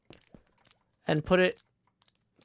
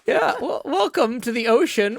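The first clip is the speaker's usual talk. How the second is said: laughing; 4 semitones higher than usual. Real, not acted. Laughing after scare joke.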